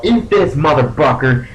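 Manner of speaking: high, loud attack cry; acted battle yell. Player's character yelling at a foe while casting, loud taunt. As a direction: yell it at the enemy, starting high. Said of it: "I yell out".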